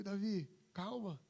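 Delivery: soft, slow and gentle; calm him down gently; calm reassuring voice. Retold or imitated. The Holy Spirit soothing Davi, soft and slow. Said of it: "o Espírito Santo começou a falar comigo".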